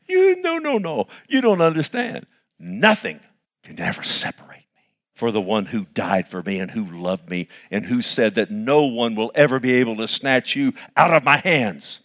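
defiant retort. Retold or imitated. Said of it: "It comes against you, you should go".

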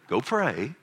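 acted curt command to GO PRAY; mock bossy dad instruction; dismissive parental order. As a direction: send the child off to do it. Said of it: "you don't go say".

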